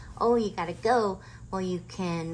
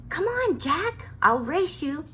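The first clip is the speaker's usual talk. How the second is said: high, loud playful challenge; little sister daring Jack to race; excited call; 10 semitones higher, 5 dB louder than usual. A narrator's reading. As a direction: dare him to race, bursting with energy. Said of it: "said Annie".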